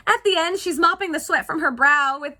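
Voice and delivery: high, loud, eager emphasis; excited restart. Real, not acted. Speaker restarting to share the tissue gag, excitedly. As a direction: jump up in pitch and volume.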